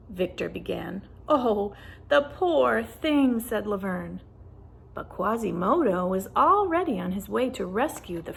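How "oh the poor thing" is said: pitying. Acted. Laverne pities the kitten.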